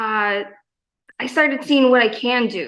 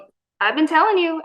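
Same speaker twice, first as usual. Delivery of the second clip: high, quick and bright "I've been telling you"; told-you-so; 6 semitones higher, faster than usual. Retold or imitated. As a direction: toss it off excitedly, a bit higher and faster. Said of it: "And I'm like".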